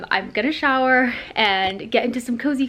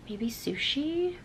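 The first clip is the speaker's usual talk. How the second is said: breathy, slow whispered afterthought; 5 semitones higher, 8 dB quieter, much slower than usual. Real, not acted. Musing to viewers about dinner, a slow whisper.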